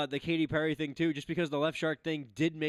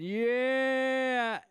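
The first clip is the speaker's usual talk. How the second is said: cheering yell; 9 semitones higher than usual. Retold or imitated. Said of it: "cheerleaders going".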